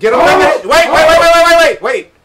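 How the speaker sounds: loud call down the stairs. Real, not acted. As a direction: yell it down to someone downstairs. Yelling downstairs to fetch drinks.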